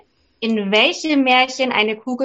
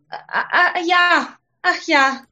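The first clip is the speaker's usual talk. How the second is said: higher, hasty princess; eager princess; 5 semitones higher than usual. Acted. Princess hurries to agree with the frog, higher. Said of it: "sagte sie".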